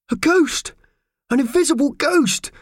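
high, loud frightened shriek; a mouse shrieks at an unseen voice. Acted. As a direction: scream it in terror. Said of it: "shrieked Mickey Thompson".

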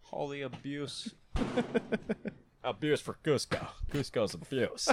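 high, squeaky goofy voice; silly high voice. Pretend. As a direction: squeak it out like a toy. Silly repeated squeak bit.

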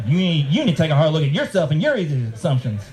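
laughing parody of his line; mocking echo. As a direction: throw his words back, amused. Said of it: "threw his last line back at him".

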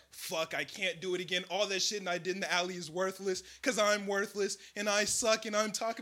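soft, low, moping; mock self-pity. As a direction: sulk through it. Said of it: "He said".

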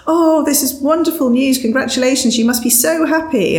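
hammed-up cheerful villagers; excited villagers. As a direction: gush like delighted neighbours. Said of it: "they go".

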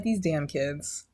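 put-on low, slow old grump muttering; grumpy old person. A podcast host grumbling about slang like a cranky old person. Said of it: "this is how I know I'm old".

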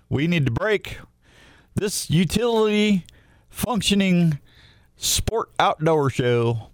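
drawn-out, deliberate throw to the break; slow showy radio send-off; radio announcer outro. Real, not acted.

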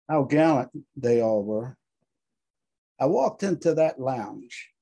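measured, solemn recitation; dramatic reading. Acted. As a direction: read it like a memorial poem.

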